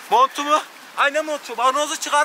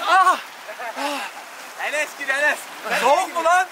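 higher gasping voice from freezing water; in ice cold water; 4 semitones higher than usual. Real, not acted. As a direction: gasp through the shock of cold. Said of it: "Su buz, vücudu buz gibi". (buz gibi suyun içinde)

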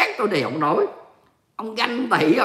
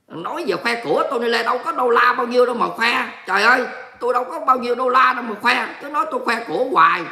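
higher-pitched, aggrieved playful protest; mock indignant; 5 semitones higher than usual. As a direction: plead innocence in a huff. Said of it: "tôi giận đó". (giọng phân bua, giận dỗi đùa)

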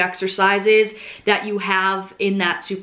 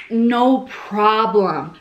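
Australian accent; much slower than usual. Shown as a demonstration. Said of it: "Like, Australian accent".

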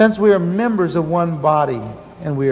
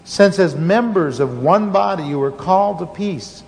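scripture reading; 2 semitones lower than usual. Acted. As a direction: read the verses with solemn weight. Reads the scripture passage.

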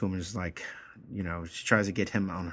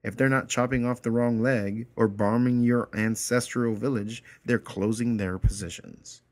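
louder, hammed-up hyperbole; smartass; 3 semitones higher, 5 dB louder than usual. Anders mocking the woman in line, hammed-up hyperbole. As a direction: overdo the tragedy, mocking. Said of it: "He's being a smartass".

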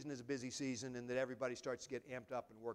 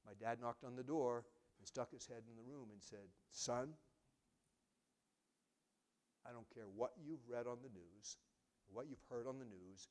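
The speaker's father's words retold gently, nearly tearing up; retold tearful memory; 3 semitones lower, 5 dB quieter than usual. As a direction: hold back tears telling it. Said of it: "here he starts to tear up".

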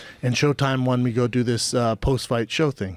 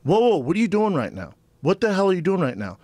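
shocked; 5 semitones higher than usual. Retold or imitated. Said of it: "I'm like".

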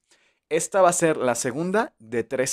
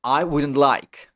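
slow model sentence; 4 dB louder, slower than usual. Shown as a demonstration. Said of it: "¿Lo tienes?".

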